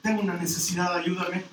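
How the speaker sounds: low, soft begging plea; pleading woman. Retold or imitated. A desperate woman quietly begging the teacher for help.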